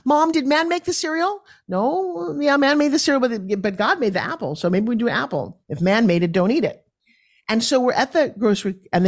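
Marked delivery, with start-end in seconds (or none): 0.0-6.8 put-on higher, chirpy child asking mom questions; eager little kid. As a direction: bounce it out like a curious small child. Kids running around asking mom.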